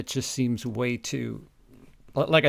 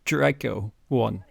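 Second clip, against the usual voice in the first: much louder, lisping menace; loud villain threat; 3 semitones higher, 8 dB louder than usual. Acted. Co-host voicing the villain threatening the hero, loud. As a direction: bellow the threat like a pantomime baddie.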